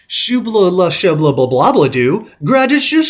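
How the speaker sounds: high, loud Sims-style babble; Simlish gibberish. Retold or imitated. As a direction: rattle off fake Sims language. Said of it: "like, Simlish".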